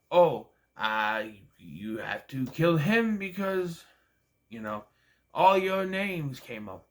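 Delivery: mocking movie line. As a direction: parody the dramatic plot line. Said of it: "I don't like the whole".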